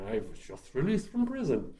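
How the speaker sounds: lightly voiced horror-actor impression; a hint of the horror-film doctor; Boris Karloff. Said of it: "doing a Boris Karloff impression".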